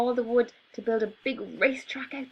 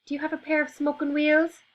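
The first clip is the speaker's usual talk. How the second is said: high, polite little elephant voice; 8 semitones higher, 4 dB louder than usual. Acted. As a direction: ask it sweetly, like a well-mannered elephant. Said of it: "asked the elephant politely".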